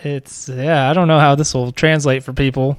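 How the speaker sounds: chewing while talking; crunching chips. Real, not acted. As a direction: talk through crunchy snacks. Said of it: "sorry about the crunching".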